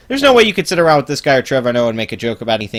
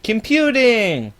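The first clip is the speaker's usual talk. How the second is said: Computing Forever voice; 10 semitones higher, much slower than usual. Retold or imitated. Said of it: "the Computing Forever voice".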